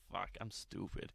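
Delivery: soft, slow, low admission; quiet, slow retold realization; deflated self-reproach. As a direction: say it under your breath, defeated. Acted dejected realization of own stupidity.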